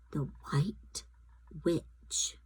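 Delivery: whispered, ominous reveal; dramatic whisper. A narrator's reading. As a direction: breathe the name with dread.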